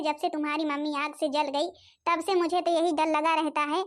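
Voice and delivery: a weary grandmother sighing over her lot; old grandmother. Acted.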